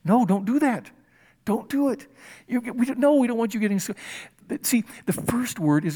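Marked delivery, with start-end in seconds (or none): 0.0-3.9 firm mock scolding of a toddler; lightly voiced stern parent. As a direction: warn a toddler off the stove. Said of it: "where you go".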